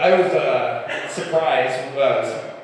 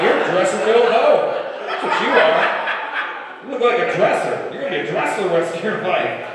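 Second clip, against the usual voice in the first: mock witch taunt; 4 semitones higher, 4 dB louder than usual. Witch cursing the lady.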